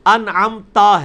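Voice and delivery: انعمتا said slowly with a clear open a on تا; correct zabar ending. Shown as a demonstration. Teacher stretches انعمتا to show the zabar. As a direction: stretch out انعمتا, opening the final a. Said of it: "تا کے اوپر کیا ہے؟ زبر".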